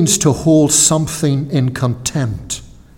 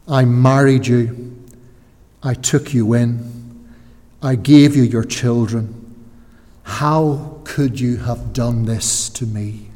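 lower, subdued reproach, softening at the end; betrayed wife; 3 semitones lower, 3 dB quieter than usual. Acted. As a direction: quietly confront an unfaithful husband, slowing on the last question. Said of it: "It sounds like a wife asking her adulterous husband".

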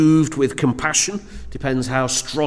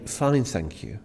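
lower, softer Fine, thank you with a hint of hesitation; subdued fine; 5 semitones lower, 7 dB quieter than usual. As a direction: say fine but let something show. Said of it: "just a little something in the voice".

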